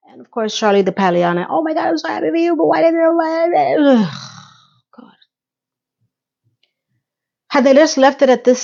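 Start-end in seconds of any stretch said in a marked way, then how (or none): 1.5-3.8 gushing Charlotte. Retold or imitated. Charlotte gushing over Miranda's news. 3.8-5.1 whispered, sighing God; exasperated sigh. Real, not acted. Exasperated by the show.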